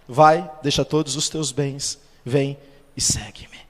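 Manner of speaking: slow, hushed answer fading to a whisper; gentle Jesus. Retold or imitated. Jesus answering the rich young man, slow and hushed.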